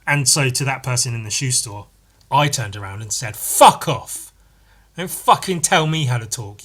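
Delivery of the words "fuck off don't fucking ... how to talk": retold angry comeback, first words punched loud; mad retort. To that person in the shoe store, retold angry retort. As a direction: re-enact an indignant telling-off. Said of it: "I got so mad".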